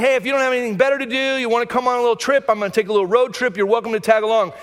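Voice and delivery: breezy, quick, offhand invitation; mock-casual, rushed invite. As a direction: toss it off like a lazy road-trip offer. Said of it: "This isn't a request".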